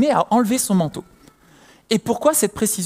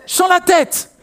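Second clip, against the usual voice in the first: mock shout of labour pain; 10 semitones higher, 4 dB louder, much slower than usual.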